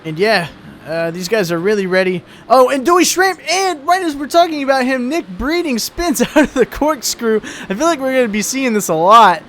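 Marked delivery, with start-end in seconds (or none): 2.5-8.9 sudden high, loud burst of excitement; excited. Real, not acted. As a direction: react to the spin with a laugh. Driver spins during live commentary.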